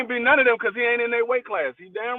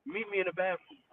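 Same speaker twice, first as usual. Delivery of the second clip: hushed, very soft and lower; imitated whisper; 4 semitones lower, 15 dB quieter than usual. Quoting the man who whispered in his ear, hushed. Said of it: "He whispered in his ear".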